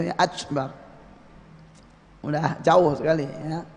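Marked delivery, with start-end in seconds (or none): 0.2-0.7 "ajbar" with a ch sound in place of k; K turned to CH. Shown as a demonstration. Teacher showing a takbir gone far off, k as ch. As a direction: soften the k of Akbar into "ach-bar". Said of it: "jadi c gitu".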